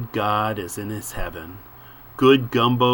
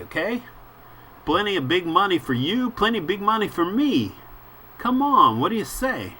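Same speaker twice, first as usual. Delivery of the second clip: high, loud pushy little reporter; a small man badgering a foreigner, pitched high; squeaky photographer; 5 semitones higher, 3 dB louder than usual. Photographer hassling the boatman: high, squeaky and pushy. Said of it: "growing squeakier and fainter".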